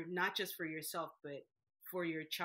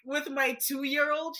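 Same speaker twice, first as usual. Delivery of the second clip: laughing retold announcement; 9 semitones higher, 16 dB louder than usual. Telling her nurse mom she'll start a business, laughing. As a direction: giggle through the big news you once gave. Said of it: "telling my mom, who's a nurse".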